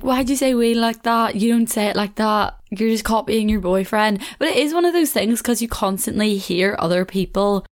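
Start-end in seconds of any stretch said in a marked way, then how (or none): 0.0-4.2 mildly accusing, slightly higher retold voice; mock a sister calling out a copycat; lightly acted telling-off; imitated sister's scolding. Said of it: "my sister went in on me".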